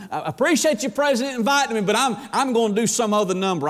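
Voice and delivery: politely wriggle out of an invitation; hint of an apologetic performer; polite excuse. Voices performers backing out politely.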